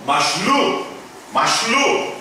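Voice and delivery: mashlu with the stress on the last syllable, lu; stress demo. Shown as a demonstration. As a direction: lean on the final lu of mashlu. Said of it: "o acento está aqui".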